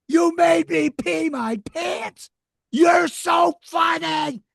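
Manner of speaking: put-on high, slow, delighted shout of a little boy; kid's joyful scream. First grader bursting in to the speaker, screaming with delight.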